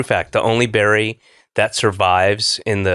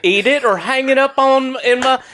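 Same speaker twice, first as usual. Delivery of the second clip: put-on Southern accent; 11 semitones higher than usual. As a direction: gush it in a playful Southern accent. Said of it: "Why are you doing a Southern accent?".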